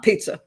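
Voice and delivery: "pizza" pronounced PEET-suh, with a t before the s; pizza with a ts sound. Shown as a demonstration. Host ruling out a wrong name for Pisa, pizza with ts. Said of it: "I don't know how you pronounce it".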